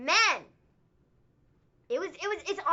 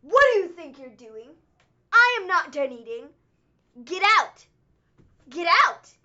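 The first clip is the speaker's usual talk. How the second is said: loud, indignant mock scolding; a wrestler's host kicking his guest out; angry boss; 8 dB louder than usual. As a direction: bark the diner out of the room. Brody Lee is like.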